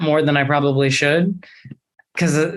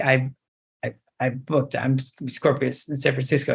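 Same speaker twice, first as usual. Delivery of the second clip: choked whisper; 3 semitones lower, 6 dB quieter than usual. Retold or imitated. Tearful news to best friend.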